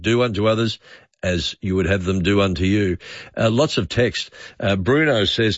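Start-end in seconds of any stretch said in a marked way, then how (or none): 0.0-3.0 light hint of an Irish accent. Host redoes Dad's saying, faint Irish accent. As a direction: lilt it gently like an Irish dad. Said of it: "In an Irish accent".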